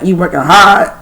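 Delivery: put-on light Chicago accent, quoting his slang; a hint of Chicago accent; imitated Chicago accent. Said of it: "that Chicago accent".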